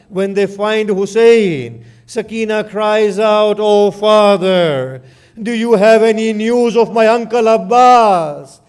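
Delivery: grieving elegy recited to the mourners; lamenting the fall of Abbas; mournful majlis recitation. Acted. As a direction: tell the martyrdom as a lament.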